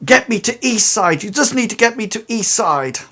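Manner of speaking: high, urgent stammering plea; frantic character pleading for help, tripping over words; desperate pleading. Acted. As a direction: beg and bargain in a hurry, pitched well up. Game master voices pleading desperate character.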